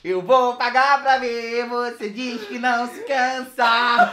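helium voice. Real, not acted. Singing after inhaling helium.

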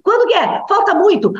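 put-on curious child nagging; eager child. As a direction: play the impatient little kid begging to know when. Child pestering mother about Christmas.

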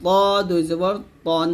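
ত thick and rounded, ending তন; heavy ṭā. Shown as a demonstration. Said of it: "এরকম". (ত মোটা করে, তন)

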